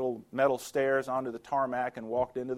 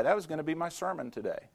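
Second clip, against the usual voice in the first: usual speaking voice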